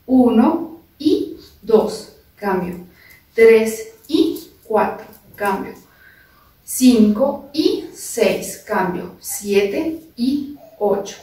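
slow drawn-out counting, each number held; slow dance count. Shown as a demonstration. Dance teacher slowly counting the samba rhythm for students. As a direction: stretch the count so they can follow. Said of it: "Hacemos ahí".

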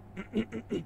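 clearing the throat before the voice; preparatory throat clear. Real, not acted. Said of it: "I can do that".

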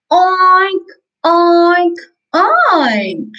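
put-on lightly sung oink oink for the child to copy; singsong pig oink. Shown as a demonstration. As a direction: model the pig sound, sing it out. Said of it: "Can you repeat after me?".

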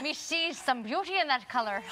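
put-on playful stage-Irish accent; mock Irish accent. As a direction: ham up a pirate-Irish voice. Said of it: "with that accent".

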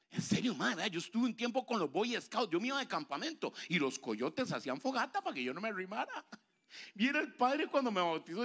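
usual speaking voice

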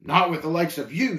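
scornful parting retort; mildly indignant brush-off; shot back. Acted. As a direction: toss it back over the shoulder. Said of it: "shot back talkative over his shoulder".

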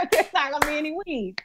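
high, giggly retelling of the patient's worry; laughing while quoting. Retold or imitated. Chaplain laughing as she quotes her patient. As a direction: squeak it out through laughter. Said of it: "so he's like".

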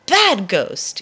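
scolding ghost; mild scolding call to the ghost. Acted. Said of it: "he calls out".

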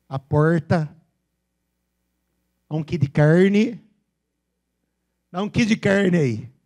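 heavy caipira retroflex R in porta and carne; São Paulo interior accent, drawn out; exaggerated countryside caipira R. Shown as a demonstration. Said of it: "Aqui no interior é mais ainda puxado".

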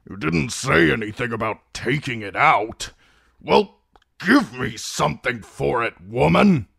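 put-on high, outraged old man's protest; indignant. A narrator's reading. Patient indignant at tooth pulling.

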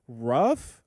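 "rough" with the short uh of "ruff"; dog-like ROUGH. Retold or imitated. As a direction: say "rough" to rhyme with "stuff", questioning. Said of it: "they say rough instead of roof".

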